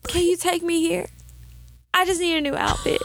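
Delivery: high, sugary asking for favors; sweet pleading voice. Retold or imitated. Woman sweetly asking a man for favors, high and pleading. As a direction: coax him like a helpless sweetheart.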